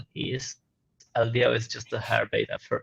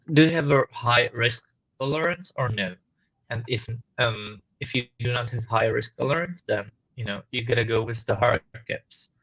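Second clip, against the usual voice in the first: muffled and static. Real, not acted. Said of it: "muffled and static".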